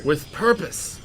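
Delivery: a hint of a wise old teacher; wise sensei voice. Shown as a demonstration. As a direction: say it like a calm martial arts master. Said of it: "In my best sensei voice".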